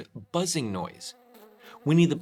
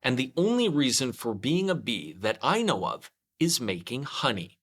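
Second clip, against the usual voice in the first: lightly voiced Pooh; 2 semitones higher than usual. Pooh thinking aloud.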